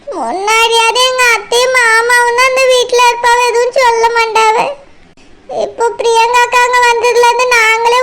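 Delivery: acted weepy lament; tearful. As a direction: worry aloud for a lonely mother, tearfully. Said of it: "அழாத மைனா".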